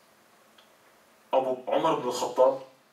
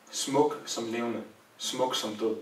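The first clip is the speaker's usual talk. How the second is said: tender farewell; 4 semitones lower, 4 dB quieter, slower than usual. Retold or imitated. Farewell words over the dead prophet.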